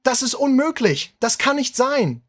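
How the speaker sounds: high, far-off screaming German officer; a German tank captain screaming disbelief over the radio; panicked scream. A narrator's reading. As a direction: shriek it in disbelief as the line collapses. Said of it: "One Hauptmann screams".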